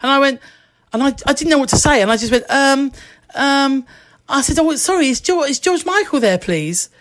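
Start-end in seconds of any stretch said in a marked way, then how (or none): 4.6-6.9 a hint of a shy little kid, pitched higher; lightly voiced little kid asking after her idol. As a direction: ask it timidly like a small child at the gate. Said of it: "Like a little kid".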